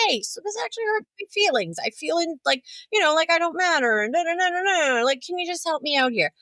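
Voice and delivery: high, airy mock-sweet voice, quick; sweet polite request. To a boyfriend who hurt her, sweetly high and polite. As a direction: put on a sugary nice voice. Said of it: "And I'm like".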